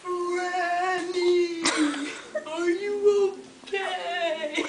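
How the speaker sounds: slow, high, laughing through it; can't keep a straight face. Real, not acted. Retake ruined by laughter.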